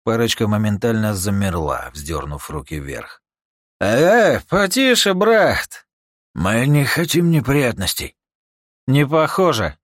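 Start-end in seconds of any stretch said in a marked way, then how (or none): 3.8-9.8 high, loud pleading voice; nervous shout. Acted. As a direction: back off the gun, alarmed. Thugs back off.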